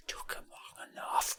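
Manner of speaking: whispered aside to mom; dad whispering to mom behind his son's back; mouthed whisper. Retold or imitated. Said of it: "he's just mouthing to the mom".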